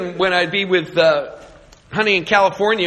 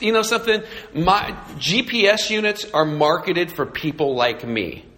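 normal talking voice

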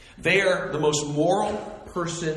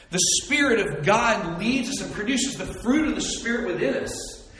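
ordinary delivery

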